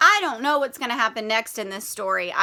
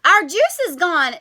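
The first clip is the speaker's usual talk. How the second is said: sniffly complaint; 5 semitones higher, 6 dB louder than usual. Acted. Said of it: "Della said with a sniffle".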